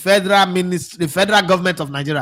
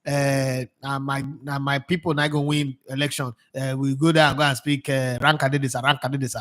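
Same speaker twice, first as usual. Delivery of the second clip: mocking the official's thoughts; 3 semitones lower, 4 dB quieter than usual. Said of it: "you were thinking".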